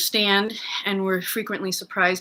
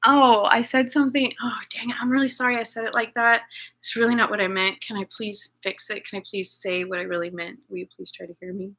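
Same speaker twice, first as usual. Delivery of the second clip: imagined apology; faster than usual. Pretend. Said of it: "That's what I wish could happen".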